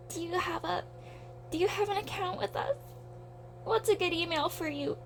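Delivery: high, soft customer-service voice; mock cashier voice. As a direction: chirp it like a bored store clerk. Mocking store clerk script.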